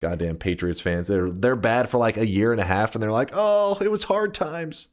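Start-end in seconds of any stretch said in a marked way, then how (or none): 3.3-4.9 mock whiny fan. Mocking Patriots fans.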